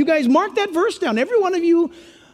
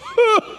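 mocking laugh; 10 semitones higher than usual. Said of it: "means to stick out the lip".

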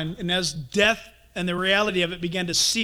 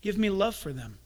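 prayer; 5 dB quieter, slower than usual. Shown as a demonstration. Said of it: "begin to pray this prayer".

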